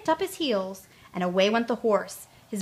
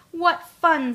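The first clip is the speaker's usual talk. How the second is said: gleeful Tootle; 7 semitones higher, 7 dB louder than usual. A narrator's reading. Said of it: "said Tootle as he danced".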